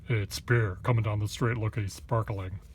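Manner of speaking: same line at normal pitch, only lightly voiced; toned-down onlooker. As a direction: redo the fan line almost plain, a touch of mock. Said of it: "Why do I make him sound like that?".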